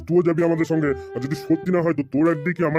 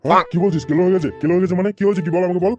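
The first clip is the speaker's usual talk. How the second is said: alarmed questioning; 3 semitones higher than usual. Acted. Boss reacts to bad news.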